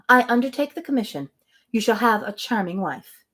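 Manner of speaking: measured reading of a novel; story narration. Acted. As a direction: read the passage with light character voices. Reads novel passage aloud.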